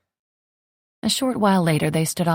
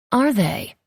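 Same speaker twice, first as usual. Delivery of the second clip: higher, doubting little question; sceptical; 7 semitones higher than usual. A narrator's reading. Amelia doubting Alistair's promise, sceptical and higher. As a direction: let the doubt show in the rise. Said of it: "the skepticism in her voice".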